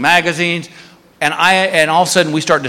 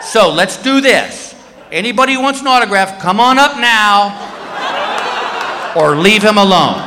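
announcing to a crowd; 5 semitones higher than usual. Retold or imitated. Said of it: "to this whole security line".

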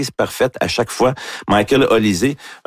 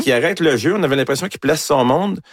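excited play-by-play; 5 semitones higher than usual. Real, not acted. Sports host recounts Mbappé's goal to his co-host, excited and pitched higher. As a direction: pitch up, eager retelling of the goal.

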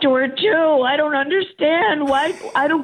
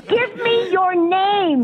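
slow, deliberate angry demand; real exasperated anger; 3 semitones higher, slower than usual. Real, not acted. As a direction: demand it word by word, fed up. Angry customer demands teller's name.

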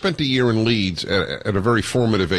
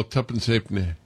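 Yorkshire accent; 5 dB quieter than usual. Shown as a demonstration. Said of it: "able to mimic a Yorkshire accent".

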